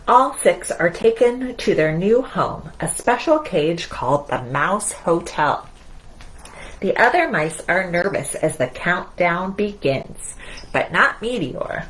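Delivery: lively picture-book narration; reading to children. A narrator's reading. Storyteller reading Mousetronaut to the children, in a lively read-aloud. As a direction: read it out to little ones.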